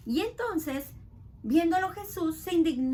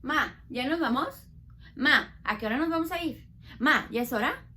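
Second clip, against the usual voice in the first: put-on impatient child; 4 dB louder than usual. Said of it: "¿cómo empieza el niño?".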